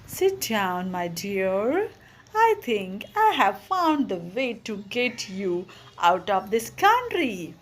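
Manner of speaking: pleasantly. Acted. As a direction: gently invite her to sit, mildly pleasant. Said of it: "he said pleasantly".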